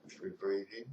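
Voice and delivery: calm, measured meditation guidance with long pauses; guided meditation. Real, not acted. Teacher leading listeners through breath and body scan, guided meditation. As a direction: talk them gently through each step, leaving space between phrases.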